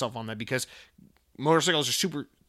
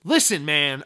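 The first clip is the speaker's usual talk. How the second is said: usual speaking voice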